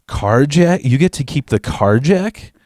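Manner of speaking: baffled, rising question; can't quite believe the demand; incredulous question. Retold or imitated. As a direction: question it in retold disbelief.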